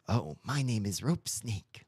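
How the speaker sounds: slow, lazy snake drawl; a lightly voiced slow talking snake; Rope Snake voice. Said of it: "the Rope Snake voice".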